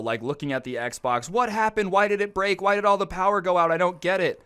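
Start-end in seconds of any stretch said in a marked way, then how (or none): 1.3-4.4 high-pitched frantic mock outburst; mock raging scream. Raging roommate at his dead Xbox, mock frantic. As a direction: whine out a raging gamer's bewilderment, high-pitched. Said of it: "his screaming".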